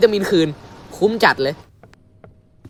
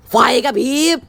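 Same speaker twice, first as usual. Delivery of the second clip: squeaky warning; 8 semitones higher, 3 dB louder than usual. Acted. Lights flicker, warning call.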